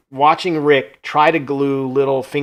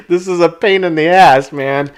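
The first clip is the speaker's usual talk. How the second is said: mock frustrated Rick; 4 semitones higher, 8 dB louder than usual. Quoting Rick's complaint.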